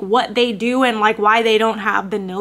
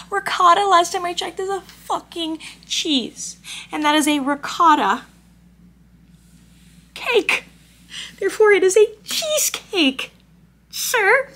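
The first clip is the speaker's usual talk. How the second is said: indignant; 6 semitones higher than usual. Real, not acted. Indignant argument about cheese.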